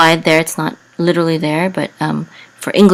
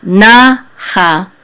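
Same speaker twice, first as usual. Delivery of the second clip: more weight on na than on cha; stress on first syllable; 4 dB louder than usual. Shown as a demonstration. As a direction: lean hard on na, let cha drop. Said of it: "this syllable is gonna have more emphasis".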